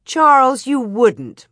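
loud, scandalized protest; exclaiming. A narrator's reading. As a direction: gasp it out, taken in by the teasing. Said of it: "Ma exclaimed before she saw that he was teasing her".

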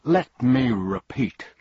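the humbug blusters and shouts; humbug shouting. Acted. Humbug shouting Balderdash at the bee, slow pompous shout. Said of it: "he shouted again".

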